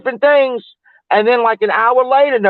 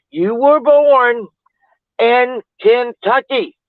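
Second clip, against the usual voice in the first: slow, drawn-out insistence; emphatic reproach; 3 semitones higher, slower than usual. Real, not acted. Telling the absent actor off over his British accent, emphatic reproach. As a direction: stretch each word out to make the point.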